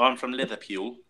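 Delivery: amateur stab at Scouse; unconvincing Scouse imitation; bad Scouse accent. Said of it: "No, that's awful".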